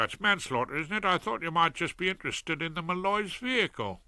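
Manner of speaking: a lightly voiced cheerful South London crook; cheery Fred. Fred about the Malloys.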